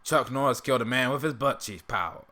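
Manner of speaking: lightly attempted character voice; an unsure go at a cartoon character; Uncle Ruckus impression. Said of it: "I can't do that one as well".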